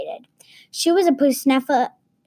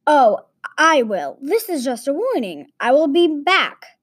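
villain threat; 3 semitones higher than usual. Acted.

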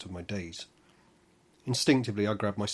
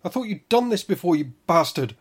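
loud, much higher furious bellow; 10 semitones higher, 12 dB louder than usual. Acted. Orinauta in labour bellowing at the midwife, loud. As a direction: roar it at her. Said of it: "bellowed Orinauta".

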